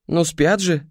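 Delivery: bright, high cheerful reply. Acted. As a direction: sing it out gleefully. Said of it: "радостно отозвалась Марина".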